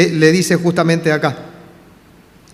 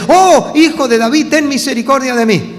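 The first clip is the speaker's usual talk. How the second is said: raised, higher-pitched mock cry for mercy; imitated plea; 6 semitones higher than usual. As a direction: call out a blind beggar's plea, not at full force. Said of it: "Entonces grita". (súplica imitada en voz alta, sin llegar al grito)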